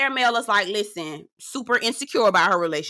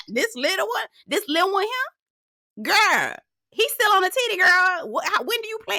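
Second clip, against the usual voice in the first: amused disbelief; 11 semitones higher than usual. Real, not acted. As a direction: laugh and stretch it out.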